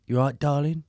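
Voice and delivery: casual cheeky greeting; lightly voiced bloke saying darling; imitating boyfriend's greeting. Girlfriend imitates her boyfriend's phone greeting, lightly voiced. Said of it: "he calls me darling".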